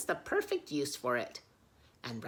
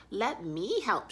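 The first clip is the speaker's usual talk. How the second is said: high, bright-toned goose offer; 6 semitones higher, 7 dB louder than usual. Acted. Snow goose offers to help, high and eager. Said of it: "she says".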